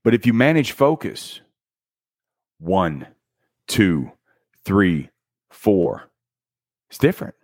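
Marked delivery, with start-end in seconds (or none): none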